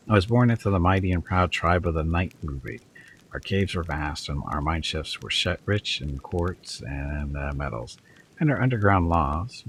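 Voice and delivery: lightly voiced bardic storytelling; sonorous bard. A narrator's reading. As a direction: recite like a practised bard, with mild grandeur. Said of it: "talking in a sonorous voice that reveals his experience as a bard".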